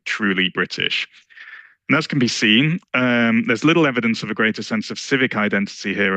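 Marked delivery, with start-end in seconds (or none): 0.0-1.0 "truly British" slowed and set apart as if in quotation marks; scare quotes. Shown as a demonstration. Lecturer flags a loaded phrase to the audience, in slow scare quotes. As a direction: hold the phrase at arm's length, slowly. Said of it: "quote unquote".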